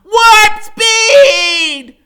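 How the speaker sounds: high, loud yelling command; high-pitched battle cry; excited shout. Acted. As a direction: yell it out like a kid on a charge. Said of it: "Freak is shouting".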